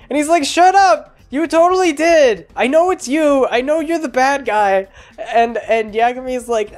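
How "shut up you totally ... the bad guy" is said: high, heated accusing outburst; hammed-up yell, easing slightly by the end; mock furious. L accusing Yagami at his house, mock furious. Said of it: "L gets really mad".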